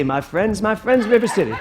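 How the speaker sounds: a hint of a showman's pitch, laughing; lightly voiced salesman, chuckling through it; Harold Hill. Preacher quoting a showman, laughing. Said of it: "I just suddenly was like Harold Hill".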